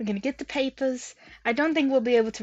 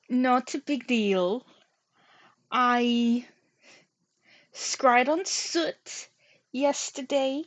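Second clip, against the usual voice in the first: tour guide; slower than usual. Acted. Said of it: "I sounded like a tour guide there".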